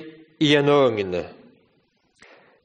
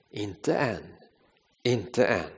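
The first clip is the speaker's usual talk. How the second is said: softer, low and calm; calm master; 7 semitones lower, 9 dB quieter, slower than usual. Acted. Potter gently answering the complaining teacup, soft and calm. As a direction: quietly tell the cup to wait.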